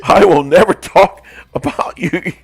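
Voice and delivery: grovel through laughter; hammed-up sorry; mock apology. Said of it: "I was like".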